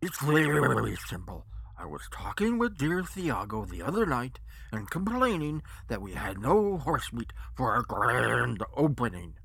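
patronizing. Acted. Chinless henchman explains to reassure the guest, loudly patronizing. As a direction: talk down to him, stretching key words. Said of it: "saying in a patronizing tone".

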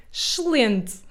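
excelente with the vowels swallowed, ʃlẽnt; Portuguese excelente. Shown as a demonstration. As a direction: eat the E's in excelente. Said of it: "nós pronunciamos como".

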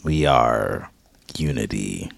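robot voice. Acted. Playing AI in fake ad.

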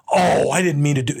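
mock dismay. Greg learns he insulted himself, mock-dismayed. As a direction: act out a friend's sudden embarrassment.

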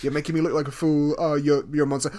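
hammed-up anger at the fool; mock rage. Boss snarling at Tom Hanks, mock angry and loud. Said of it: "And then he's like".

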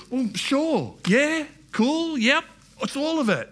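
breezy agreement. Retold or imitated. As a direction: agree lightly to every suggestion before dismissing it. Airy mock agreement to suggestions.

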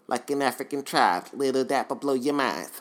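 lisped rap-line impression; careful retake in a rapper's lisp; rapper impression. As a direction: recite it with a put-on lisp. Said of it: "All right, I got it right".

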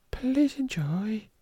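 slow whispered sign-off; whispering. Acted. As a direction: whisper it slowly. Sign-off before the clip.

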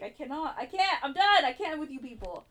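exasperated. Retold or imitated. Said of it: "I'm so mad".

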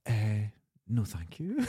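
a lightly voiced girl's polite no, trailing off; hint of a prim, awkward decline; mock polite refusal. Girl refusing his beef crisp, mock polite. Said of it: "she went like that".

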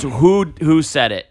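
slow, deliberate teacher interrogation; stern teacher. Retold or imitated. Fifth-grade teacher questioning four boys, slow and stern. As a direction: draw it out like a teacher demanding a confession. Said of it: "she goes".

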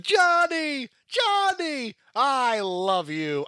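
high-pitched mock swooning squeal; mocking high, gushy cry of love; Connie. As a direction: squeal the name, then draw out the devotion. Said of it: "she's like".

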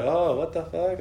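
mildly voiced freak-out; tripping out. Son imitates dad seeing his dead aunt, tripping out. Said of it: "Like, tripping out".

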